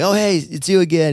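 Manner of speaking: high, cheery mock husband; husband greeting the rep, in a high, cheery mock voice; imitating the husband. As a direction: chirp it out as the easygoing husband. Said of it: "the husband, like, sees him".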